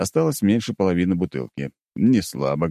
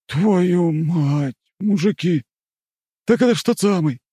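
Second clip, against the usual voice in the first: excited; 13 semitones higher, 4 dB louder, slower than usual. Acted. Guardsman stunned by the cognac.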